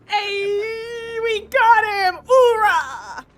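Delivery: high, loud army hoorah shout; loud gung-ho soldier. Pretend. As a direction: bellow it like a pumped-up marine. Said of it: "That wasn't a very good hoorah on my part".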